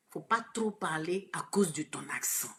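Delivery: soft whisper, as a secret; whispered warning. Retold or imitated. Retelling her tutors' warning, in a soft whisper. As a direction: hush it like a guarded warning.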